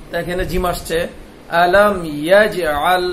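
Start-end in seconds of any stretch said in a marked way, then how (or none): 1.6-3.0 আলম ইয়াজআল with a louder jolt on the জ; qalqala bounce. Shown as a demonstration. Teacher drills the echoing জিম for pupils. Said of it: "ধাক্কা দিতে হবে".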